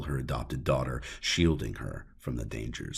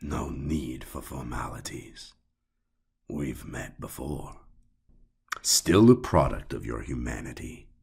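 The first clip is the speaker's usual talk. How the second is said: smooth sinister man. Acted. Sinister man voiced by narrator.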